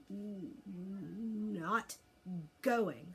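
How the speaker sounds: stubborn. A narrator's reading. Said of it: "said Toothless stubbornly".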